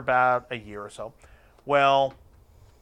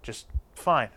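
much softer self-talk; quiet inner voice; 3 semitones higher, 8 dB quieter than usual. Retold or imitated. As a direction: talk yourself down under your breath. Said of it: "I'm like".

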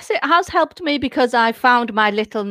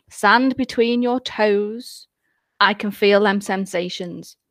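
1 hypnotist voice; 2 semitones lower, slower than usual. Shown as a demonstration. Describes hypnosis script.

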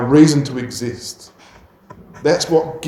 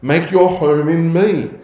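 voiced prayer, higher; pleading prayer to the Lord; earnest prayer; 5 semitones higher than usual. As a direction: pray it from the heart. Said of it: "It fuels our prayers for ourselves".

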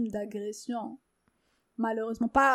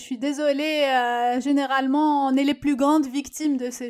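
heated protest; 3 semitones higher, 12 dB louder than usual. Real, not acted.

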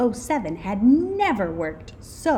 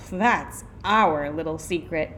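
put-on coy reply, not raised; secretive kids; 2 semitones lower than usual. A narrator's reading. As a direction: echo it slyly, stressing OUR. Children echo the teacher's coy answer.

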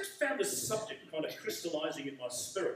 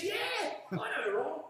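put-on old man shouting; 10 semitones higher, slower than usual. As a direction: bellow it like he can barely hear. Half-deaf old man answers loudly.

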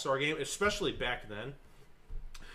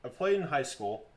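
muffled, into a cup; speaking into a cup; 3 semitones higher, 4 dB louder than usual. Real, not acted. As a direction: talk with a cup over your mouth. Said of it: "Speaking into the cup".

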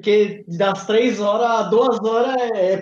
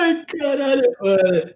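after laughing hard; 5 semitones higher than usual. Real, not acted. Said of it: "tô chorando de rir".

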